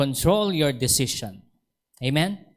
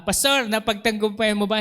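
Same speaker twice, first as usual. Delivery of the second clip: congregant asking; 7 semitones higher than usual. Retold or imitated.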